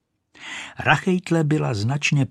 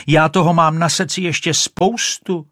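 ječení; 6 semitones higher, 5 dB louder than usual. A narrator's reading. Rachejtle volá za kachnou.

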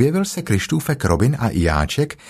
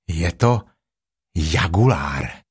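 lower, slow bear voice; solemn Pooh; 5 semitones lower, slower than usual. A narrator's reading. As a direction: draw out jagulár gravely. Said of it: "řekl Pů". (vážný pomalý medvídek Pů)

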